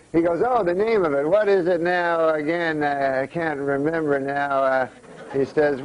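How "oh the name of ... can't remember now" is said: slow, searching for the word; old man losing his train of thought; forgetful old uncle. Acted. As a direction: drag it out, trying to remember. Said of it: "when a guy gets old, he starts forgetting".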